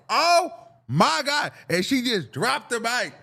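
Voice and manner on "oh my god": high, drawn-out gasp of disbelief; mock horror, pitched up; acted shock. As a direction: react in alarm, stretching it out.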